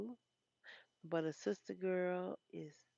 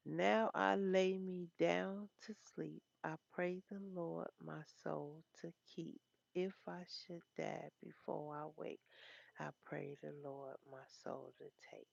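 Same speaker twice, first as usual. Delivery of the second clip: bedtime prayer. Shown as a demonstration. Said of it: "I forgot how it go".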